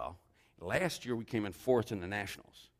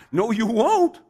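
high, loud rebuff; hammed-up hen shout; indignant storybook hen; 13 semitones higher, 13 dB louder, slower than usual. A narrator's reading. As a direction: shut them down as the scolding hen. Hen refuses the idle animals.

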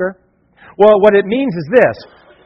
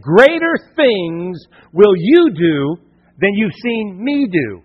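solemn quote; slower than usual. Acted. Quoting Jesus, slowed and solemn.

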